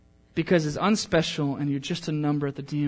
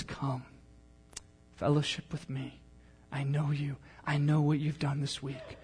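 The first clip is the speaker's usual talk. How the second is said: tender voice of God. Acted. Voicing God's tender invitation.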